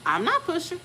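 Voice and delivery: squeaky high denial; high protest. Retold or imitated. To her doctor during labor, high baffled protest.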